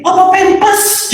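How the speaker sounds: high, slow puzzled ask; mock puzzled query; confused question. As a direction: ask as if mishearing. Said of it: "Saya pikir".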